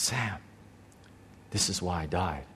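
very soft, low, spaced-out words; still small voice. Retold or imitated. The Lord repeating himself to the driver, still small voice. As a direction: say it low and hushed, with a pause after the name. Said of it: "this still small voice".

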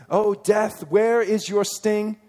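"O death, where is your sting" declaimed loud and high, slowing at the end; proclaimed reading. Shown as a demonstration. Preacher reading the verse aloud to the church, loud and slow. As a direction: ring it out like scripture. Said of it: "we sing that song a lot".

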